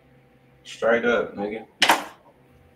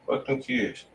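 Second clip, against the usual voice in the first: whispered joke; 7 dB quieter than usual. Pretend. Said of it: "Nah, I'm fucking with you".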